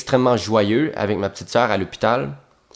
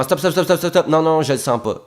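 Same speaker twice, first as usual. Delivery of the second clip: rapid "stop" with a laugh; mock coach interrupting; 4 semitones higher than usual. Imitating the coach cutting him off, impatient and laughing. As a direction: cut the actor off, impatient. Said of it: "Elle me coupe immédiatement".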